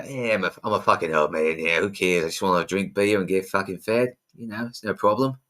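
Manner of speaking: a light, self-confessed bad Australian accent. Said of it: "Is that your Australian accent?".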